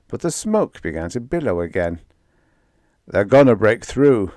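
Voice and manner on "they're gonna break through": louder frightened cry; screaming. Acted. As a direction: cry out that they'll break through. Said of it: "screamed Donna".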